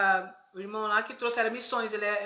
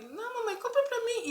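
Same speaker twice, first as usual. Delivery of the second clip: put-on high pleading little boy; child insisting; 11 semitones higher than usual. Son insisting to mother at church door, high pleading. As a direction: beg again like a stubborn small child.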